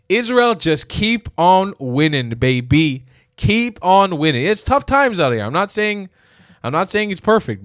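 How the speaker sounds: loud, high, slow gloating cheer; gleeful cheering. Real, not acted. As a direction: crow it like a fan in the stands. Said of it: "cheering Israel on".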